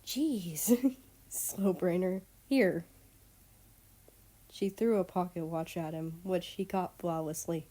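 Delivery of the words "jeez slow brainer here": laughing tease. Acted. Girl teases him, laughing.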